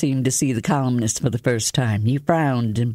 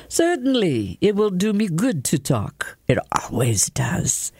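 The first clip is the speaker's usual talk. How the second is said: a bright, chirping and much higher voice; chirpy; 5 semitones higher than usual. A narrator's reading. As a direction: pipe up cheerfully and high. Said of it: "Sheeran chirped up".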